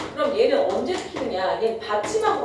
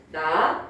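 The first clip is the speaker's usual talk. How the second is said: "나" pitched low; 6 semitones lower than usual. Shown as a demonstration. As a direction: say "나" on a low starting tone. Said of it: "낮게 시작하는 거야". ("나"를 낮은 음으로)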